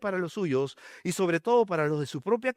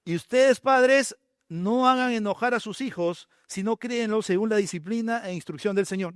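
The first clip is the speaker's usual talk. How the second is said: proclaimed verse; 4 semitones higher than usual. Shown as a demonstration. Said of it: "la antítesis de ese versículo".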